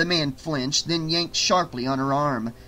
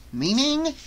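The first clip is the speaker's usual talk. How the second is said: puzzled question; 11 semitones higher than usual. Acted. Asking what police code means.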